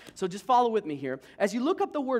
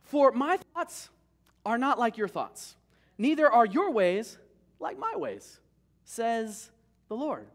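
slow, louder and higher proclamation; voice of God; 4 semitones higher, 5 dB louder, slower than usual. Acted. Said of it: "God says it this way".

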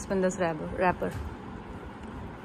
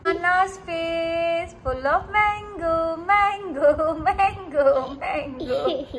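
laughing; 4 semitones higher, 4 dB quieter, much slower than usual. Real, not acted. Mother laughing at mango face.

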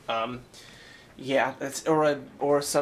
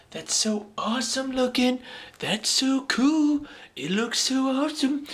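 thrilled gush; 10 semitones higher, 3 dB louder than usual. Real, not acted. Vlogger shows off his new microphone, high thrilled gush. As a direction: savour every word of it.

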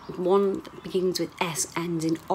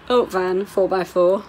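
loud game of naming lorries; calling out vehicles; 6 dB louder, slower than usual. Real, not acted. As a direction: call each one out as it passes. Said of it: "it's like a game, innit".

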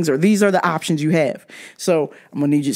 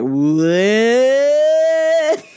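stunned shout, much higher and louder; shocked what; 7 semitones higher, 4 dB louder than usual. Retold or imitated. Telling the dad about his water habit, shocked shout. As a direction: shout it in disbelief.

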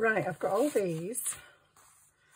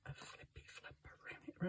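whisper; 19 dB quieter than usual. Acted. Repeated as whisper.

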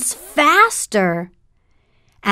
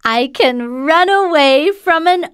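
gingerbread man voice; 7 semitones higher than usual. Acted.

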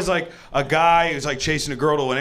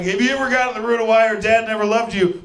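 raised pitch, rapid-fire delivery; energy-drink therapist pitch; 6 semitones higher, faster than usual. Acted. Therapist pitches an energy drink style of therapy, hyped.

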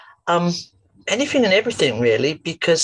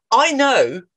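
put-on whispered aside to a child; hushed, conspiratorial; confiding whisper; 9 semitones higher, 6 dB louder than usual. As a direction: let him in on a secret. Confiding to the boy.

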